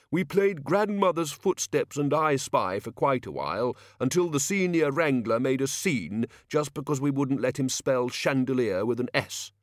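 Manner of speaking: fussy don justifying himself; defensive Chair of studies. Acted.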